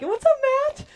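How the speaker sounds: loud, high-pitched street hello; confident greeting. Retold or imitated. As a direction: call out high and loud to a passerby. Calling out confidently to a passerby.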